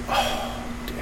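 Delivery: hushed, voiceless 'oh no' reaction; dismayed sigh. Retold or imitated. Pitcher recalling the pain coming back, dismayed sigh. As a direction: let it out under the breath, deflated.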